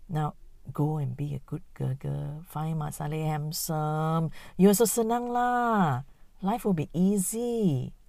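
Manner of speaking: breezy auntie voice. Acted. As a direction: shoo her off like a cheeky aunt. Auntie sending girl off.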